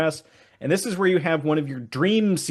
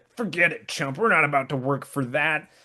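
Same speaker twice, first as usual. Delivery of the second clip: jerky, douchey tough-guy voice, dismissive and brushing off. Voicing a game character turning down a plea: douchey Shiftry voice. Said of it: "this douchey Shiftry".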